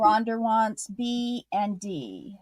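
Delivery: slow, slipped into a Boston accent. Real, not acted. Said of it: "Did you hear my Boston accent come in? I said Rhonda".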